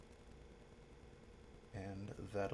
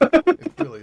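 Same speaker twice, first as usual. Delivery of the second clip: goblin voice; 24 dB louder than usual. Acted. Agreeing in a put-on voice.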